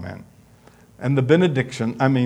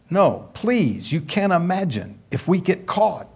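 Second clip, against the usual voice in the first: put-on girl's voice; 7 semitones higher than usual. Girl refuses boy's kiss.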